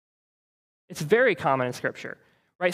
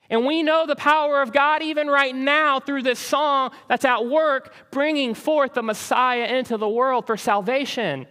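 higher-pitched, forceful sermon delivery; impassioned preaching; 8 semitones higher, 4 dB louder than usual. Real, not acted. Preacher proclaiming God's power at work through the song, impassioned. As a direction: proclaim it to the congregation with rising conviction.

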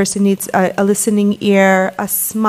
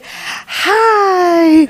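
much higher, louder put-on phone hello; mother picking up a caller's call, much higher put-on greeting; 10 semitones higher, 4 dB louder than usual. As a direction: switch on the friendly phone voice. Mother answering phone after a breath.

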